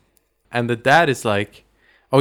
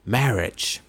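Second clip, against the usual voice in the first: slow, ponderous priest intoning a sermon; droning priest; 4 dB quieter than usual. Retold or imitated. Priest going on and on at the wedding, droning. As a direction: draw it out like a long-winded priest. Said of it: "the priest kinda goes on and on".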